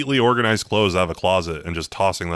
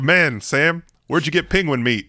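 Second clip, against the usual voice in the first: high, put-on pizza customer; high comic voice of a diner; 8 semitones higher, 3 dB louder than usual. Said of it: "It's like".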